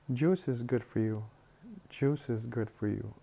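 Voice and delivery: "is" as its own syllable after "juice"; separate syllable. Shown as a demonstration. Teacher showing the rule for juice, "is" said as a separate syllable. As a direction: keep the vowel of "is" after "juice". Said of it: "as a separate syllable".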